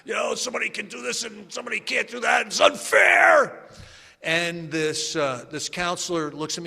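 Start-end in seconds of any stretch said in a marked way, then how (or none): 0.0-3.6 hammed-up angry ranting; mock raving complaint. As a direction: rave like a resentful newcomer. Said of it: "raving about something".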